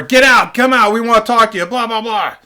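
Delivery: urgent mock shout, trailing into blahs; imitated cops' shouting. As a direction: act out police yelling through a door. Acting cops banging on door.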